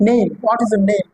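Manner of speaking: NAME with a slow, drawn-out ei glide; model English pronunciation. Shown as a demonstration. Teacher models English for pupils, NAME drawn out as "neim". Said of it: "নেমের উচ্চারণ কিন্তু হবে কি ইংলিশে".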